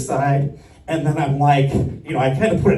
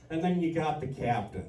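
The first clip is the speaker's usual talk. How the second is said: ordinary talk, nothing marked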